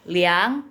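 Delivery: slow "liang" that dips and climbs; "liang" pushed down before it swings up; dipping third tone. Shown as a demonstration. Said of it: "Ini nada ketiga nih".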